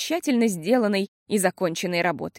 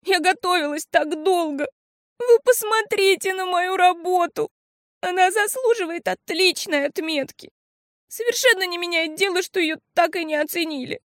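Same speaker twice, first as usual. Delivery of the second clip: put-on tearful girl; 10 semitones higher than usual. A narrator's reading. Girl weeps about her exam.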